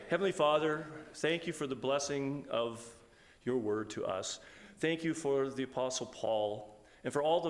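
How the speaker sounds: steady, earnest prayer voice; closing prayer. Acted. Pastor praying over the congregation's potluck, earnest prayer. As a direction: lead the church in prayer, sincerely.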